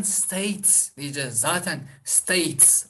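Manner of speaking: "states" drawn out to a final ts; voiceless s ending. Shown as a demonstration. Teacher models plural after hard t, s ending. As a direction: slowly say "states" ending in a hiss. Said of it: "Ünsüz ve sert".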